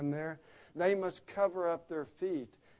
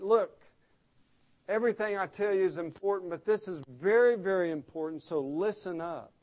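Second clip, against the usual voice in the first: raised, insistent "Look", driving on to "listen up"; urgent emphasis; 3 semitones higher, 5 dB louder than usual. Retold or imitated. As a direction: demand attention with a punched "Look" and "very, very". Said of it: "That's to indicate".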